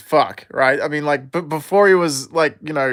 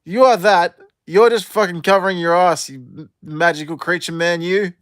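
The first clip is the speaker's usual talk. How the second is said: louder, higher accusing jab; mock retort; 3 semitones higher, 4 dB louder than usual. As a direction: call him out, half joking. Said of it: "And I'm like".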